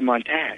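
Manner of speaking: "montage" ending in a flat "-tadge". Retold or imitated. Shatner naming the shoot, "montage" said "-tadge". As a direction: say "montage" with the a of "cat" at the end. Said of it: "saying "montage".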